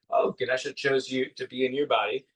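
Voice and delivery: lightly imitated English accent. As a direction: quote the coach in a slight English accent. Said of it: "In his English accent and everything".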